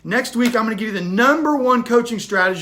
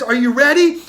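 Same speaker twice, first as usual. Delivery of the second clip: mentor shouting; 3 semitones higher, 5 dB louder than usual. Acted.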